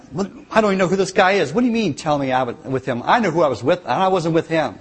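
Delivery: acted-out indignant denial; defensive denial. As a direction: brush off the accusation in a hurry. Acting out Peter's flustered denial.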